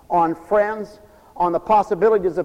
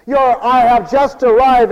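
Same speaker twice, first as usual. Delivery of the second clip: slow, louder self-important announcement; mock air of superiority; superior attitude; 2 semitones higher, 5 dB louder, slower than usual. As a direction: announce it like you've just arrived.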